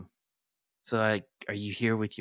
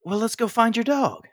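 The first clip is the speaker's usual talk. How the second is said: put-on talking to a child; 14 semitones higher, 7 dB louder than usual. Player talks to child.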